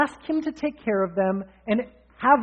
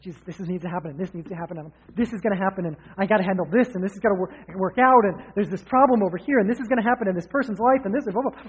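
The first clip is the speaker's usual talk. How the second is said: frantic prayer; faster than usual. Retold or imitated. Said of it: "I can be all frantic".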